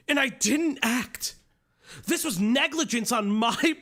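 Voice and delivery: earnest determined anime hero read; solemn, overly earnest hero monologue; anime protagonist voice. Retold or imitated. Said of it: "Stop using the anime protagonist loser voice".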